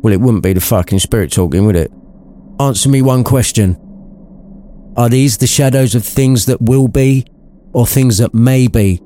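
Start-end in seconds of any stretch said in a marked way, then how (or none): 2.6-9.0 Scrooge voice. A narrator's reading. Scrooge questions the spirit.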